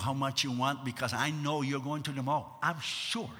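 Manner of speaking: low, soft, resigned aside; acted husband seeing through the sweet talk; knowing husband. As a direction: say it quietly and knowingly. Knowing husband answers wife's coaxing.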